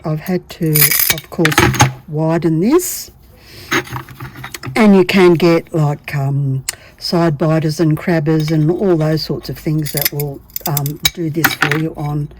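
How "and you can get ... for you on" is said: talking while straining; words pushed out under effort; effort grunt. Real, not acted. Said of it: "I was just grunting".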